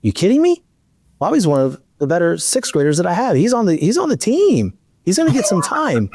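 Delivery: lightly voiced coach, high and incredulous; a coach telling a parent he's shocked, lightly incredulous; retold coach's disbelief. Coach telling the wife her son made the team, mildly incredulous. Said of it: "He goes".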